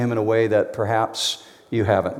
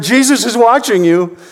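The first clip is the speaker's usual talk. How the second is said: mystery voice; 11 semitones higher, 7 dB louder than usual. Acted. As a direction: make it sound spooky and unseen. Voice repeats to burglar.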